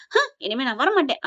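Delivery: a wounded, teary vow; tearful sulk. Retold or imitated. Younger brother leaving hurt after being scolded, a touch of crying. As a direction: say it with a catch of crying.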